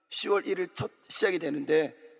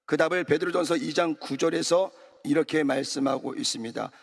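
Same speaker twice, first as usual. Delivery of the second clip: ordinary talk, nothing marked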